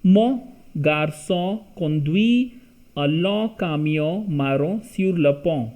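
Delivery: quick run-through of the French sentence; fast, fluent French read. Shown as a demonstration. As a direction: rattle off Mon garçon conduit in one go. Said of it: "let me read it fast".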